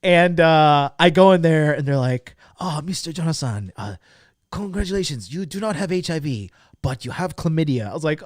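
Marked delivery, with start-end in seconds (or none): 2.6-7.9 lightly put-on clinician's announcement; a hint of formal clinic worker; clinic staff. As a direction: deliver results as a polite official. Voices clinic staff giving results.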